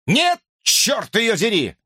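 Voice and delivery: high, slow, exasperated outburst; sleep-deprived subject cursing his rival; exasperated curse. A narrator's reading. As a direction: spit out the curse. Distressed subject curses the other subject.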